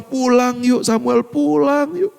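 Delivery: slow, tender invitation home; slow tender call. Retold or imitated. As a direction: call him home gently and slowly. God's words repeated slowly. (ajakan pulang yang lembut dan pelan)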